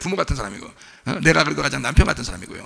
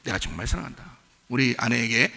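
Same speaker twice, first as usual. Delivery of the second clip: soft love words; 3 semitones lower, 6 dB quieter than usual. Retold or imitated. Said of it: "그랬어요".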